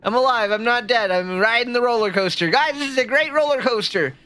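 high-pitched, excited exclamations; excited relief. Real, not acted. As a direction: cheer that you survived. Streamer celebrates surviving the ride.

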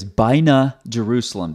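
"Baina Jerusalem" with an English J; quoting his mistake; imitating his phrase. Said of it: "interesting phrase".

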